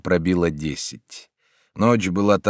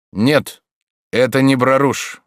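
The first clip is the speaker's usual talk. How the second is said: calm stranger; 6 semitones higher, 5 dB louder than usual. A narrator's reading. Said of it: "отвечал голос".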